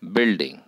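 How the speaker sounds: "Building" with prominence on BUILD; first syllable of "Building" carries the stress. Shown as a demonstration. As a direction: make the "Build" of "Building" prominent, "ding" lighter and falling. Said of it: "first syllable is the prominent syllable".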